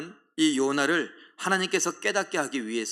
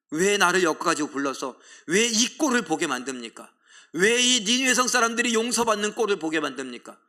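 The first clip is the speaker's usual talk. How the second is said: rising, louder indignant complaint; angry protest; 4 semitones higher, 4 dB louder than usual. Acted. Jonah complains to God, indignant and rising.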